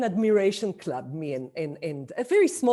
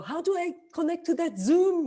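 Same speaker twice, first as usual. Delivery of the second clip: high-pitched, louder mock query; imitated puzzled friend; 12 semitones higher, 4 dB louder than usual. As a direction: act out an elderly friend puzzled by technology. Voices elderly friend asking for help.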